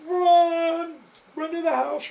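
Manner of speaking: high, loud screamed warning; shrieking run; frantic shout. Retold or imitated. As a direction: yell at him to get inside. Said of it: "You know".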